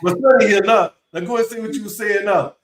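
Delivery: boastful dad. Retold or imitated. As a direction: show off the son to the room. Dad taunting the poker table.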